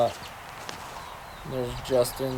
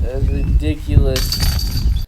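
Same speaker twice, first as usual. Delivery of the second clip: excited; 2 semitones higher, 6 dB louder, much slower than usual. Real, not acted. Reacting to an amazing shot on video.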